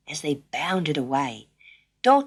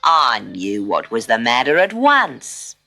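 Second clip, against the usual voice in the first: gentle kangaroo; 7 semitones lower, 5 dB louder than usual. A narrator's reading. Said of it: "said the kangaroo gently".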